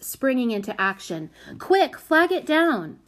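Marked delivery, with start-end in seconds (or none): 1.6-3.0 high, loud, drawn-out call; urgent shout. A narrator's reading. Prudence rushing to stop the cart, shouting. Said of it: "shouted Prudence".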